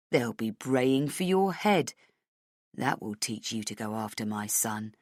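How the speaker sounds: Hennessy sneering threats at the heroine; cruel taunting villain. Acted.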